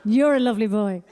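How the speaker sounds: high, sing-song coo at a man. Shown as a demonstration. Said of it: "It's even affected my flirting".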